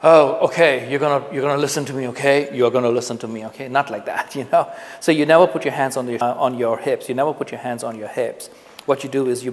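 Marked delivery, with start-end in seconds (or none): 0.0-3.7 loud, fast, bossy mock lecture; domineering. Shown as a demonstration. Teacher showing students how not to sound domineering. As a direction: boss the room around, hammed up. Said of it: "you don't want to sound domineering".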